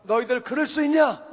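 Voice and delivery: indignant rebuke to the people; acted anger. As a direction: scold them as an angered leader. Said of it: "모세가 화가 나서".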